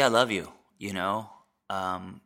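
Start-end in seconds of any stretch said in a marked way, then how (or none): 0.0-0.5 "I love you" said fully and deliberately, each word given weight; mean every word of "I love you"; the earnest, complete "I love you"; sincere I love you. Shown as a demonstration. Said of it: "and not "love ya".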